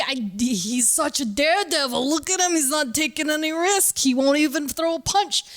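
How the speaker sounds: high, sneering mock; mocking taunt. Kids mocking Matt as a daredevil, high sarcastic taunt. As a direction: tease him as a coward, sarcastic. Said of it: "No, like".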